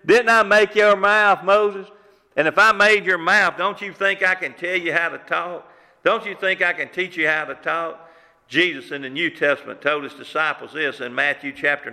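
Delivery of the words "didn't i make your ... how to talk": booming God. Acted. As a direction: thunder it back at Moses as God. God rebuking Moses' excuse.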